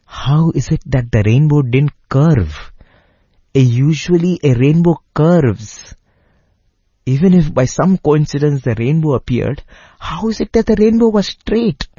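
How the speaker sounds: high-pitched, incredulous musing; puzzled wondering. A narrator's reading. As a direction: puzzle aloud, pitch climbing to the final question. Retold puzzling over the rainbow.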